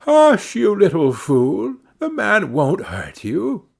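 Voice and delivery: high-pitched scolding mother; crying out. A narrator's reading. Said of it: "cried she".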